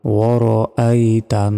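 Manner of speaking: ওয়ারাআইতান slowly, a separate aa-i after wa-ro; sounded hamza. Shown as a demonstration. Teacher modelling the word, slow ওয়ারাআইতান with distinct hamza. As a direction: hold the final n of ওয়ারাআইতান, hamza clearly sounded. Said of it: "হামজার উচ্চারণই আমরা".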